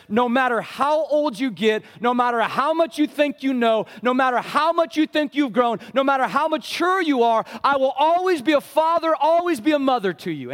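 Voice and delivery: high, loud pleading parent voice, preached out; parent's heart speaking. Retold or imitated. Pastor voicing a parent's promise, high and loud. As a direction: cry it out like a parent who never lets go. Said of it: "The heart of a parent says".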